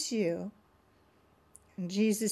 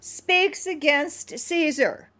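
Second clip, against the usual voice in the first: raised, slow warning; crying out; 5 semitones higher, 4 dB louder than usual. Acted. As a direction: call it out as a threat. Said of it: "the Jews cried out".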